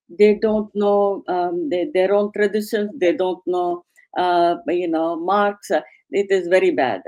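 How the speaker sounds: light imitation of a Russian visitor's accent; a hint of a Russian accent, retelling a colleague's blunt verdict. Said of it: "in his Russian accent".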